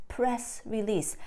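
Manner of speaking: "press release" slowed, stress on "press". Shown as a demonstration. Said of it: "like a press release".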